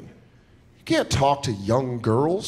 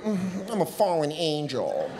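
quiet, slow brooding sigh; emo devil; 5 dB quieter, slower than usual. Retold or imitated. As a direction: mope it out dramatically. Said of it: "I was an emo Satan".

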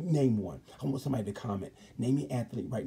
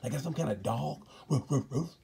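higher, aggrieved mock-Maverick; voicing Maverick, hurt; 5 semitones higher than usual. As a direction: complain like a rider treated like a dog. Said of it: "Maverick said".

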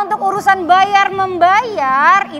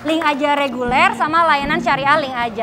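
upbeat sponsor pitch; ad read. Acted. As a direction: sell the app like a commercial. Reads a sponsored ad.

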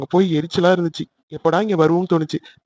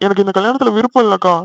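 tearful, louder pleading with father and sister; crying like a child; 2 semitones higher, 4 dB louder than usual. Acted. Son crying to his father that he doesn't want the marriage. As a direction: whimper out the refusal like a crying kid. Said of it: "சின்ன பிள்ளை மாதிரி அழுதுகிட்டு இருக்க".

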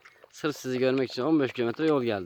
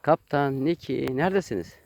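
calling out; 2 semitones higher, 5 dB louder than usual. Real, not acted. Owner calling for her pets Kaptan and Niki, raised voice. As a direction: call for the pets, searching.

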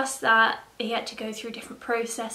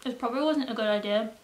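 mouth full; faster than usual. Real, not acted. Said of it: "I can't really talk while I'm eating".

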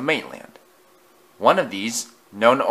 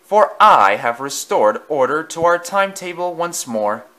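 higher, louder boastful claim; pompous engine; 6 semitones higher, 5 dB louder than usual. A narrator's reading. Vain engine boasting to Henry and Thomas. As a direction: crow about saving the line. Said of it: "declared eight seven five four six".

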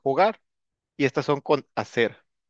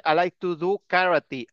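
"do" and "like" stressed, slow; slow classroom example. Shown as a demonstration. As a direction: model each sentence slowly. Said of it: "por ejemplo".

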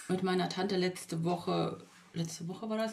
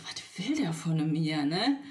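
whispered thought; 3 semitones lower, slower than usual. Retold or imitated. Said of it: "Und ich denke mir so".

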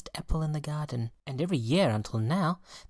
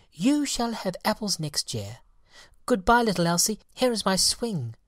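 higher, resolved fairy voice; repentant fairy; 6 semitones higher than usual. Acted. Fairy speaking to Elsie, higher and resolved. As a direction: make a sincere promise.

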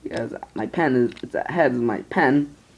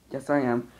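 ordinary talk, nothing marked

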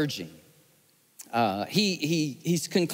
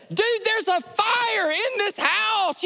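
higher, slow, insistent warning; urgent warning; slower than usual. Retold or imitated. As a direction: spell out the danger to a stranger. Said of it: "I said".

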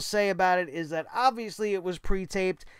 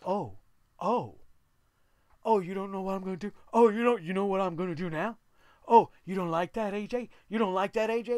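mock taunting; faster than usual. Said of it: "very basic and very generic".

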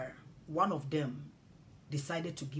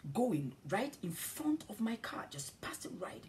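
hushed whisper; 3 semitones higher than usual. Retold or imitated. Slow-motion stranger.

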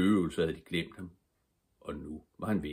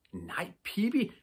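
alarmed cry; 12 semitones higher, slower than usual. Acted. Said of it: "skreg både Tommy og Annika".

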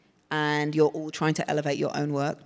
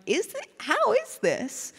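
puzzled inner thought; 3 dB louder, slower than usual. Retold or imitated. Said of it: "I'm like".

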